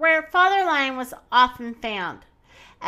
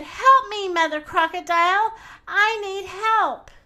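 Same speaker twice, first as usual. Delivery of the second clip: calling for help; 8 semitones higher than usual. Acted. Pounced-on boy calls Mother Crocodile, frantic. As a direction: call out desperately to the crocodile.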